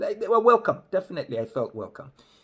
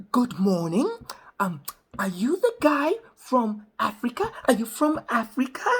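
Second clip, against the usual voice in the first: curious counter lady; 11 semitones higher, 4 dB louder than usual. Retold or imitated. Counter lady greets the stranger.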